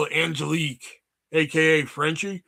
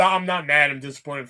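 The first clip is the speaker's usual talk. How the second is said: disappointed parent; 5 semitones lower than usual. Pretend. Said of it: "I was gonna give you the".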